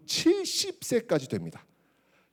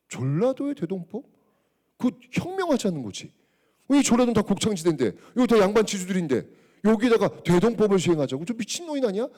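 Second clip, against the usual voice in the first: mock outrage, voice raised and rising; indignant ministers; 3 semitones higher than usual. Ministers protesting Kim Yuk's reform, acting outraged. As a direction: sell the nobles' fury at the reform. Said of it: "격렬히 저항을 해요".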